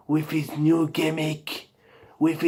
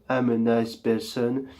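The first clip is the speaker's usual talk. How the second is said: low voice slipping in; 5 semitones lower, 6 dB quieter than usual. Pretend. Host's nice claim slips into a low soft evil voice. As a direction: lower and softer, the old evil voice creeping back. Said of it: "Who changed my voice?".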